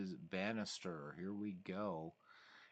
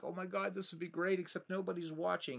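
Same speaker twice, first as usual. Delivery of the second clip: high, excited mock thought; raised, eager aside to himself; excited inner voice; 10 semitones higher than usual. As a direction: pitch up into giddy hope. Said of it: "and I'm like".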